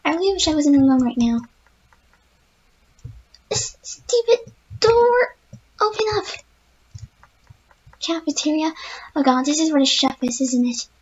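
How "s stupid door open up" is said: high, near-crying plea at the door; frightened whine. Real, not acted. Gamer pleads with the locked door, scared whine. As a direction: whimper it at the stuck door.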